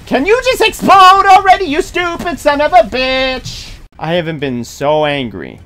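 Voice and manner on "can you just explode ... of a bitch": raging gamer. Real, not acted. Yelling at enemy.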